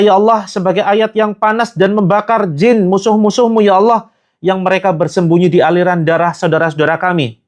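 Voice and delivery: impassioned pleading to God, rising in force; fervent ruqyah prayer. Acted. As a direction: pray hard against the jinn.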